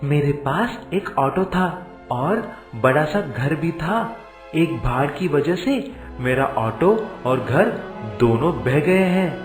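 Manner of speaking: lightly put-on character voice; a touch of a humble villager; Kamesh telling his troubles. Kamesh telling the tree of his losses, lightly voiced.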